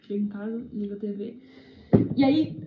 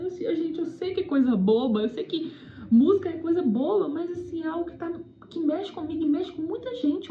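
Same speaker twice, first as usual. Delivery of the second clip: retold tearful plea; 4 semitones higher than usual. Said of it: "uma menina chorando do mesmo jeito".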